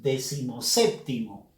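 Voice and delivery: "decimoséptimo" as one word, weight on sép; esdrújula stress. Shown as a demonstration. Teacher saying it with students, "decimoséptimo" stressed on sép. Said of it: "Pronuncia esta palabra y juntos diríamos".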